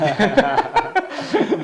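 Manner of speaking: sudden high, hearty laugh; burst of laughter. Real, not acted. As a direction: laugh out loud at the joke. Laughs at own accent remark.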